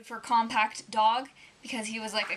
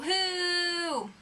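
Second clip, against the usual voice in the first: "Who?" yelped high, in mock outrage; indignant "Who?"; 7 semitones higher than usual. To her husband, a high mock-upset "Who?". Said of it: "I'll go".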